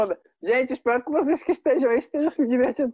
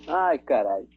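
after laughing hard; 10 semitones lower than usual. Real, not acted.

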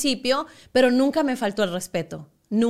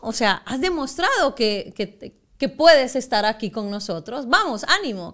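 pep talk; 3 semitones higher, 4 dB louder than usual. Retold or imitated. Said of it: "Me dice".

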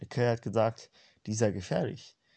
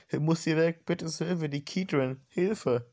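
cry for help; 5 semitones higher, slower than usual. Acted. Cries for help in dream.

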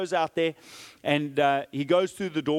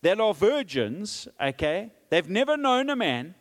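pleading offer; 6 semitones higher than usual. Acted. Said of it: "Lot says".

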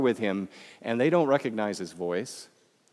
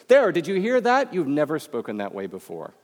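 sudden high loud exclaim, then settling; like catching a friend's new sound mid-sentence; startled delight, then eased down; excited discovery; 4 semitones higher, 4 dB louder than usual. Retold or imitated. Imagined listener noticing new voice.

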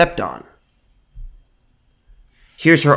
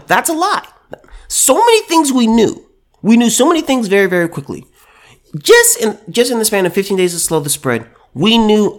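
heated rebuttal; 5 semitones higher than usual. Real, not acted. Emphatic rebuttal.

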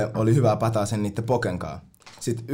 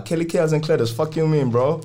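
imitating cocky confidence; 5 semitones higher than usual. The friend bluffs the doorman about the guest list, cocky mock swagger. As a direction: sell the fake fame like it's obvious. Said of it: "vitun uskottavasti".

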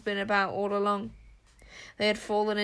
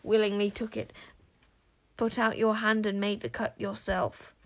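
sinister taunt. Acted. King Witch taunting Zar.

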